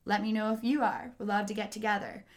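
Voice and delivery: flat, even, robotic reading of a friendly text; deadpan it like a creepy robot; monotone voice with no ups and downs. Shown as a demonstration. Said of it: "such a creepy monotone voice".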